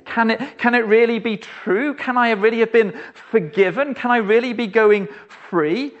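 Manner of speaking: can it really be true, half afraid to hope; dazed disbelief. Acted. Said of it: "we stand there in a daze".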